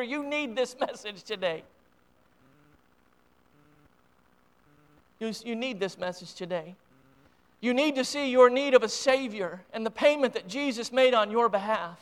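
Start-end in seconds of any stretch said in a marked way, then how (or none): 0.0-8.3 quiet appeal. Real, not acted.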